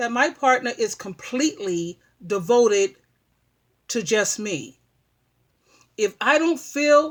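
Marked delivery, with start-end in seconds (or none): 0.8-4.8 slow, deliberate delivery, each word laid out with care. Explaining the need for a partner's complete devotion; said slowly. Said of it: "I'm going to say this slowly".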